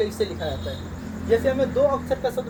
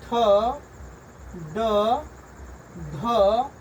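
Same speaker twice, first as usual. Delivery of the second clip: letter drill; much slower than usual. Shown as a demonstration. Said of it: "इसको पढ़ना है".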